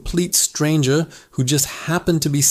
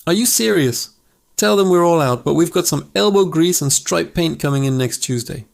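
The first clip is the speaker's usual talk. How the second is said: raised voice shouting back; yelling back; 3 semitones higher than usual. Retold or imitated. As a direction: call it back from the far end. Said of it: "yelled back".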